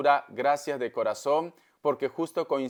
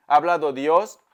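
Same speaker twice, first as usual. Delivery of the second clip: "Ha hablado Dios" said much louder, "Ha" pushed hard; emphatic declaration; 7 dB louder than usual. Real, not acted. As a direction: proclaim it like a revelation. Repeats the phrase for emphasis. (proclamación enfática y fuerte)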